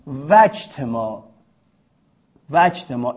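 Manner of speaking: وجتماع said with no glottal stop, vajtemā; hamza dropped. Shown as a demonstration. Teacher repeating وجتماع to show the dropped hamza. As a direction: glide v into j in وجتماع.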